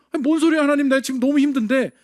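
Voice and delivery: loud, high mock complaint to God; exasperated protest. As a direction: blurt it out like a fed-up believer. Believer protests God's word.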